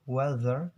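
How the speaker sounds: "weather" as weh-thuh, final r dropped. Shown as a demonstration. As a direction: say "weather" without the r, British style. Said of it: "they will avoid to pronounce the R sound".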